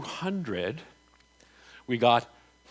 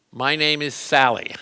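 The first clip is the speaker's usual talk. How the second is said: louder, slow, emphatic statement; with gusto; 6 dB louder than usual. Shown as a demonstration. Coach models the line loudly for the muscle test. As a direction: declare it proudly, pushing the voice. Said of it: "Say it with gusto".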